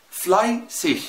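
فلايسيش بشين خفيفة في الآخر; قول فلايسيش بشين خفيفة كأنها سيها; light ich. Shown as a demonstration. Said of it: "شين خفيفة خالص". (نطق فلايسيش بشين خفيفة)

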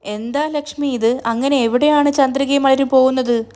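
worried, urgent question; alarmed. Acted. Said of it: "ഭീതിയോടെ Mahendran sir".

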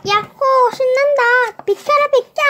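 loud, high whooping cheer; excited whoop. Acted. Boy riding a cart through the store, shouting with joy. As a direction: whoop like a kid racing a cart.

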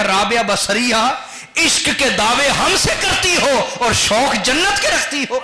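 high, slow, ringing reproach; divine rebuke. Retold or imitated. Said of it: "अल्लाह की तरफ से झिड़की आई". (ऊँचे सुर में खिंची हुई रूहानी झिड़की)

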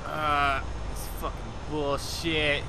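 low, soft muttered complaint; disgruntled grumbling. Pretend. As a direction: grumble to yourself under your breath. Grumbling about the replacement car.

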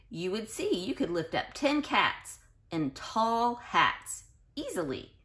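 lilting read-aloud storybook voice; sing-song storybook reading; reading to children. Acted. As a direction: read it like a bedtime picture book to little kids. Reads picture book to children.

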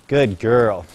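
reward her gently; praise to horse. Real, not acted.

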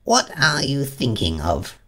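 slow, high-pitched scolding mouse; severe. A narrator's reading. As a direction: scold her with stern, measured words. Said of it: "said the Mouse to Alice severely".

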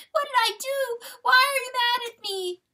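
put-on high, loud hurt-child wail; bawling. A narrator's reading. Fawn thinking Papa is mad, high bawling. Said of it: "bawled the poor fawn".

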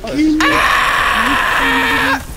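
long high, loud scream; sustained high-pitched yell. Real, not acted. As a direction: scream out in game panic. Panicked scream during play.

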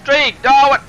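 high, loud disbelief; shocked cry. Real, not acted. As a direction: yell out in outrage. Friend Dreeg knocked out.

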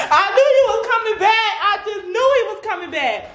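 gloating through laughter; laughing. Real, not acted. Girlfriend to camera about the prank, laughing. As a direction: laugh it out, so pleased.

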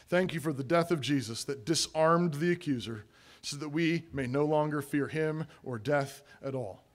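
measured, subdued prayer voice; closing prayer. Real, not acted. Preacher prays to the Father to close, measured and subdued. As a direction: lead a congregation calmly in prayer.

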